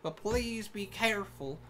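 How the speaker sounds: unhurried cartoon Southern voice; stereotypical Southern accent. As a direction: explain it as a helpful country guard with a Southern accent. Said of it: "really offensive Southern accent".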